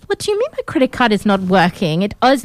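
obnoxious put-on Russian-German accent; Anna. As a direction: play an indignant fake heiress with a mixed Russian-German accent. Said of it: "I'm doing an a-hole accent".

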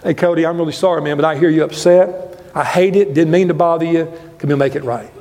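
a hint of a humble apology; gentle apology. Shown as a demonstration. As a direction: apologize like you mean it. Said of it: "you have to do this".

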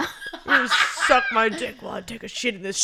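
fast crude mock inmate; prisoner impression. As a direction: spit it out quick like a jailbird. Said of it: "my prisoner impression".

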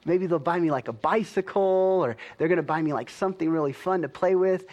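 retold birthday excitement, building hopefully; excited kid. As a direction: imitate an excited little boy guessing at his gift. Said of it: "So he was really excited".

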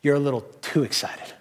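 mock scolding. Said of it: "didn't do as they cheered".

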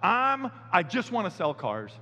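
slow, drawn-out whine; whiny plea. Retold or imitated. Pastor whining to God about selling cars, slow. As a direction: whine it out slowly. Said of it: "it's like".

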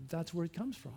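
usual speaking voice

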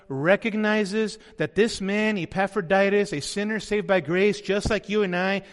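normal talking voice

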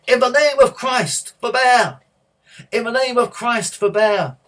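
loud, high, impassioned monk's cry; full-voiced plea to halt the fight. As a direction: shout it across a roaring arena. Monk cries out to stop games.

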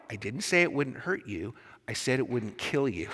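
lightly voiced unruffled angel. Angel clarifying to the hurting ghost, calm. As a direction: correct the ghost evenly and firmly. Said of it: "And the angel says".

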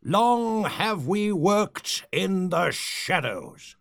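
grand villainous oratory; rally the faithful, solemn and grand; roaring rallying speech. Acted. Resumes grand speech again.

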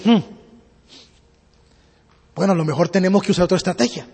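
low, soft, quick thinking to oneself; musing aloud. Acted. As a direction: mull over a new plan under your breath. Merchant thinks aloud after failing.

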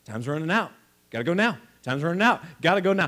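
pushy infomercial pitch, building to a shout. Acted. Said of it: "Are you infomercial guy or girl?".

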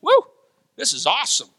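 thrilled, delighted exclaiming; excited quote. Retold or imitated. Preacher imitates a believer who sees it from inside, in mild thrilled wonder. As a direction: gush with wonder at what you see. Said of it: "you're going".

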